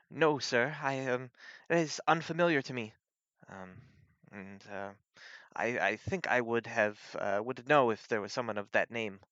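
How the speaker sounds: a hint of an unsure subordinate; deferential townswoman. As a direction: answer the sheriff politely and uncertainly. Game master voices Ogric answering.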